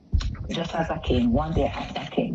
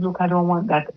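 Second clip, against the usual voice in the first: firm refusal; 4 semitones higher, 5 dB louder than usual. Retold or imitated. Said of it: "This was my word to him".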